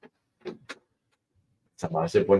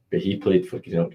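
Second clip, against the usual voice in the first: quieter, mock heartbroken; played softer like a mock lament; mock heartbreak; 5 dB quieter than usual. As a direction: drop it softer as if wounded, half joking. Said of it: "and that breaks my heart".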